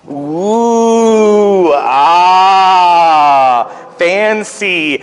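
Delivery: mock awe. Real, not acted. Teacher shows kids the project.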